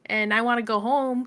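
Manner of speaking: mock indignant protest; indignant heroine. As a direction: complain like a kidnapped girl. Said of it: "And she's like".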